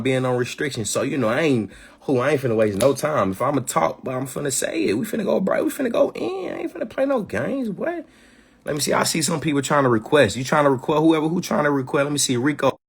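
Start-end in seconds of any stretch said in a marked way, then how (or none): 4.9-8.0 hyped up. Real, not acted. Hyping himself up on live.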